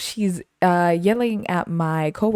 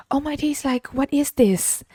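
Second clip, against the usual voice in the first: lightly put-on higher voice, aghast; higher-pitched imitation of an appalled customer; mock shocked customer; 9 semitones higher than usual. Customer balks at the candy's size, mock shocked.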